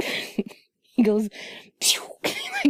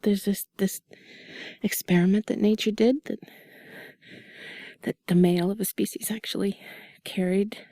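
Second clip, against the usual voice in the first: sultry narrator; 2 semitones lower, 4 dB quieter than usual. Acted. Whispered intimate chat continues.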